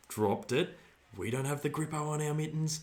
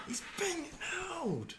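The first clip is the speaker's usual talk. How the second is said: mock outrage; 8 dB quieter, much slower than usual. Real, not acted. Appealing for a free kick.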